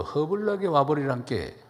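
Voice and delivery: lightly imitated Jeolla speech; Jeolla dialect. Shown as a demonstration. Preacher turning a welcome into Jeolla dialect. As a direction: say it with a Jeolla lilt. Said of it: "전라도 말로".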